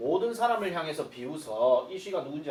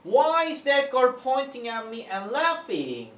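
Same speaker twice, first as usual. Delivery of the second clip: higher, slow startled outcry; mock exclaiming; 8 semitones higher, 4 dB louder, much slower than usual. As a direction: act out the uncle's sudden outburst. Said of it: "갑자기 exclaimed, 외쳤대요".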